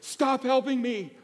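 high, loud, fed-up rebuke; Jesus, exasperated. Retold or imitated. Jesus telling Peter to stop, in a high, loud, fed-up rebuke. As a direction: sigh it out like a weary teacher. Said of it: "I can almost hear Jesus say".

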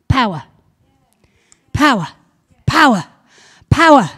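rising call of power, crescendo; building to a shout. Real, not acted. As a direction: hammer "power" harder every time. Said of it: "building repeated word".

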